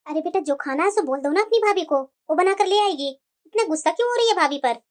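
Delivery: put-on older mother coaxing; gentle mother. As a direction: ease her temper. Mother soothes daughter.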